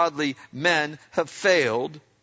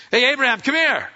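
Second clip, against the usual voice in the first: king calling out; 9 semitones higher, 6 dB louder than usual. Retold or imitated. King summons Abraham before court.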